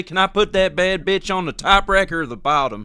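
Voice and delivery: high, put-on dopey shopper voice; goofy customer asking a clerk; mocking a shopper. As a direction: ham up a clueless buyer. Mock customer at a store.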